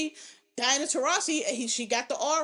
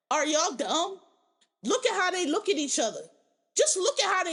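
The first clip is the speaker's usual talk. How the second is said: pitched up in disbelief, are y'all serious; incredulous scoff; 5 semitones higher than usual. Real, not acted. Talking to the internet about a couple, exasperated disbelief. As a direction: throw the question at them like it's obvious. Mocking disbelief at straight people.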